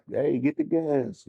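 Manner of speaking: a gas station worker's slow, high "get the gas". Retold or imitated. Narrating how gas attendants shrugged it off, slow high mock worker voice. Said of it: "they was like".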